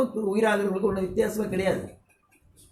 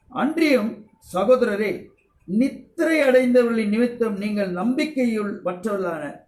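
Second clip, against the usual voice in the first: measured preacher's recitation of the verse; scripture reading. Acted. Reads scripture aloud.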